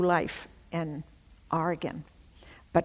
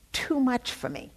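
choked up; 5 semitones higher than usual. Real, not acted. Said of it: "dissolving in tears".

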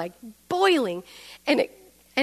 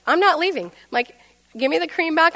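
defiant; 5 semitones higher, 3 dB louder than usual. Retold or imitated. Refuses to leave during quarrel.

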